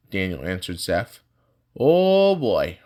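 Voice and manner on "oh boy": put-on high, loud, drawn-out oh boy; a whistling high exclamation; impressed whistle-like oh boy. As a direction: sound impressed and a little alarmed. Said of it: "Emlyn whistled".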